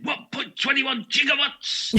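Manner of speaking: very high, slow exclamation in character; Doc Emmett Brown impression. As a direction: draw it out in a high-pitched movie-character cry. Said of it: "and Doc Emmett Brown in".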